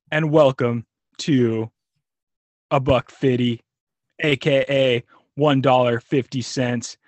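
slow drawn-out announcer intro; show intro. Acted.

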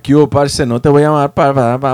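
put-on a rough go at Colombian-accented Spanish; imitated Colombian accent. Comic imitating a friend's Colombian lover, mock Colombian accent. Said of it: "I don't know what accent that was".

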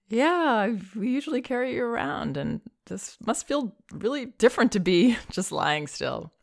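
put-on high, quick, light baby talk. Shown as a demonstration. Parent admitting the change to crying baby, high and quick. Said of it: "I would totally cop to".

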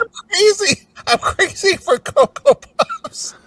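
high zany cartoon cuckoo. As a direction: shout it like the crazy cereal bird. Cocoa Puffs ad imitation.

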